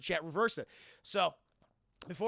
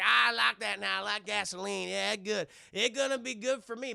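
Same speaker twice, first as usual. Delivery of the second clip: lightly hammed hillbilly twang; cowboy stranger; 4 dB louder than usual. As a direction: gloat like a backwoods robber. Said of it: "this guy in a cowboy hat".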